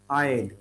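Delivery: "I'd" as one syllable; contracted. Shown as a demonstration. Teacher shows how it pronounces, contracted "I'd". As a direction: merge "I would" into "I'd". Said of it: "It pronounces".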